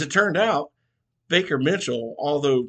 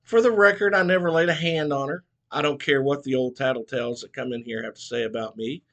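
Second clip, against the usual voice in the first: growled. Acted. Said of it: "Mitchell growled".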